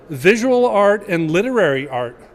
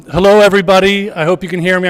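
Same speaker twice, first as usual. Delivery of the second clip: projecting; 5 dB louder, faster than usual. Real, not acted. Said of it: "I'm gonna try to project".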